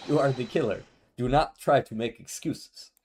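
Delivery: put-on accusing Russian-accented voice; lightly Russian. Russian guy accuses suspect of pretending, lightly Russian. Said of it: "We'll go very lightly Russian".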